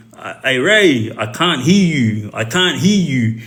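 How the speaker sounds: slow, drawn-out jeering call; mild imitation of prisoners mocking; mocking taunt. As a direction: taunt him slowly, like shouting across the yard. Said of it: "That was their way of mocking him".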